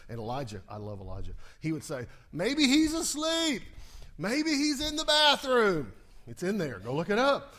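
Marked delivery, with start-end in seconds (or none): 2.3-5.9 high, loud, slow mocking jeer; mocking taunt. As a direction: taunt the false prophets with mock concern. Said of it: "kinda poke fun at them".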